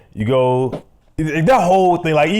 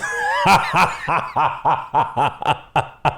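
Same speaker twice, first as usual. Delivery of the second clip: long rhythmic run of laughter; 3 dB quieter than usual. Real, not acted. Host cracking up at his bowling story, long laugh. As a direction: laugh it out in a long string of ha's.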